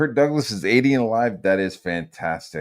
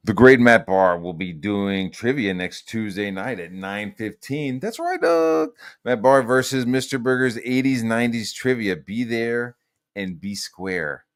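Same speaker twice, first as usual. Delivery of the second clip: promo read; 2 semitones higher than usual. Acted. Streamer plugging next Tuesday's bar trivia, announcer style. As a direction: punch it out like an event promo.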